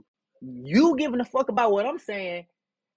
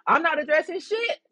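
mocking sing-song; 8 semitones higher, 4 dB louder than usual. Mocking his own refrain.

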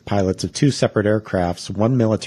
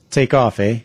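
mock Canadian accent; 3 semitones higher, 4 dB louder than usual. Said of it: "You hoser".

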